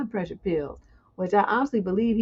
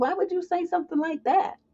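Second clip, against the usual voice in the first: confused and puzzled, slightly raised, not accusing or angry; 8 semitones higher than usual. Showing how to play a line: confused, not accusatory. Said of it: "Sound confused, like, you know, I'm confused".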